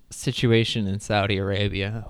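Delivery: grave newsman's announcement; war correspondent. Pretend. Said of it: "Sound like a war correspondent".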